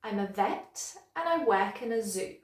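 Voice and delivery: "vet", "work" and "zoo" stronger, small words reduced; natural rhythm, weight on "vet", "work" and "zoo"; modelled sentence stress. Shown as a demonstration. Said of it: "Try it after me".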